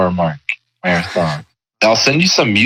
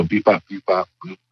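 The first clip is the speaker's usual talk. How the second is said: toy robot voice; 5 dB quieter than usual. Retold or imitated. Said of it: "they just go".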